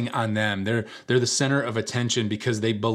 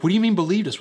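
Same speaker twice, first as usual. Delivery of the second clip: high, loud mock disbelief; raised-pitch offended question; indignant challenge; 9 semitones higher, 5 dB louder, much faster than usual. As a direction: imitate an affronted friend demanding answers. Girl challenges friends indignantly.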